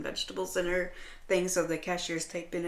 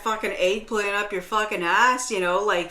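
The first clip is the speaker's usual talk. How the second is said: scornful mockery; 5 dB louder than usual. Mocking the snooty shopper's refusal.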